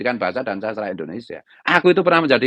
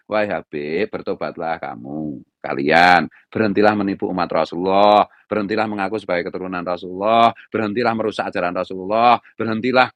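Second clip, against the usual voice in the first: mildly mournful, tender plea; imitating a gentle weeping appeal without real tears; a singer; 3 semitones lower than usual. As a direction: plead in a lower, measured chant-like tone. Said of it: "dengan perasaannya yang lembut itu menangisi".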